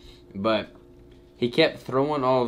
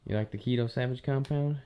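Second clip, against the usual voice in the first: whispering; 5 dB quieter than usual. Real, not acted. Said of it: "I'm whispering 'cause Crystal's sleeping".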